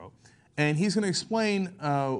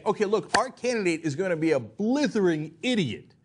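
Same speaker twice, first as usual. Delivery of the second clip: mock campaign strategist; 5 semitones higher than usual. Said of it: "this is the Bush model".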